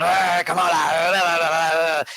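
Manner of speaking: effortful lifting grunts; straining grunts. Retold or imitated. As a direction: strain like lifting something heavy. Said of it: "you hear him, like, going".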